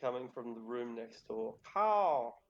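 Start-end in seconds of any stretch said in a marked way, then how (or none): 1.6-2.4 one high, long caw; cawing raven. Acted. Game master voices the raven next door, cawing. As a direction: call out as a raven from another room. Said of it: "You hear a raven".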